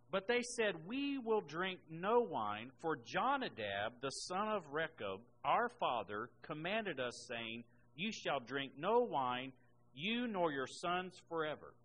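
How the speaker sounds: slow, emphatic Bible reading; deliberate pulpit reading; scripture reading. Acted. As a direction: proclaim the verse, stretching the key phrases. Reads scripture aloud to congregation.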